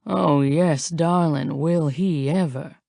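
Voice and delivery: low, slow Southern drawl; savouring it in a Southern accent. Acted. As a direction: let it stretch out in a Southern drawl. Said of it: "A southern drawl".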